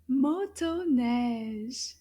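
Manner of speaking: Motoneige slow, every syllable drawn out; slow model word. Shown as a demonstration. Teacher modelling a French word, Motoneige slow and measured. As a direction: say Motoneige slowly so learners can follow. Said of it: "let's repeat it a little bit faster".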